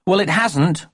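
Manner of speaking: put-on high, eager little boy; a small boy calling his mother; child's voice. A narrator's reading. Young Jeremy James calling to busy Mummy, high child voice.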